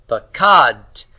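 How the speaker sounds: "pakad" slowly, long KAD with closing t; final-syllable stress. Shown as a demonstration. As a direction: say "pakad" as one pa-KADT, stressed at the end. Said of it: "is the final syllable".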